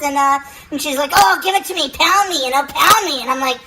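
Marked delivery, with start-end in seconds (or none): 1.1-3.2 mock woman's voice, hammed-up. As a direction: play her begging in a high voice. Mimicking the woman in bed.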